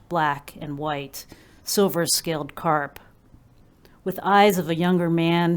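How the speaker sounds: measured recital with firm phrase openings; poetry reading. Acted. Poet reads to listeners about her grandfather's goldfish, measured recital. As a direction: start each phrase firmly and let it fall. Reads own poem aloud.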